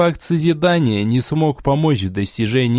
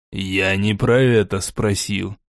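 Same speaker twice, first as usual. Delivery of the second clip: low, slow curt correction; cold low lord; 5 semitones lower than usual. Acted. Borey cuts her off.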